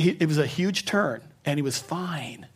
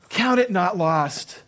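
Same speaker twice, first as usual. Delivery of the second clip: voice of God; 4 semitones higher, slower than usual. Retold or imitated. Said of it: "the Lord said these words to me".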